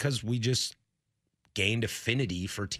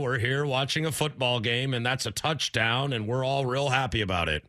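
Howard Cosell impression. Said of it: "my name's Howard Cosell".

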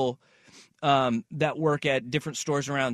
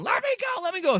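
imitating a woman yelling; faster than usual.

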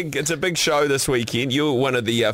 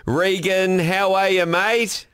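higher-pitched Aussie greeting; Australian accent; 6 semitones higher, much slower than usual. Acted. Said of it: "Was that your Australian accent".

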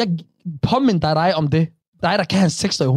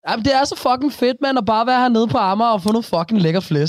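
higher, exaggerated Copenhagen street slang; hamming up Copenhagen talk, pitched up; mock Copenhagen slang; 5 semitones higher than usual. Mocking how Copenhagen guys talk to his friend, in hammed-up Copenhagen slang. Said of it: "Hvorfor skal København altid snakke sådan her".

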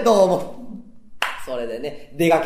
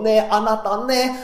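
head voice; 5 semitones higher than usual. Shown as a demonstration. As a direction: push it up into a head-voice call. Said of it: "頭の方から声を出してさ". (頭声で高く呼びかける「ねえ、あなた」)

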